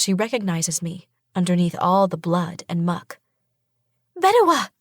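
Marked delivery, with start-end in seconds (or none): 4.2-4.7 high, loud, relieved; cry of recognition. A narrator's reading. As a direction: shout her name in disbelief. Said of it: "she cries".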